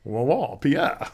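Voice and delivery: a hint of a suave French skunk; Pepe Le Pew. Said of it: "who I was going for was Pepe Le Pew".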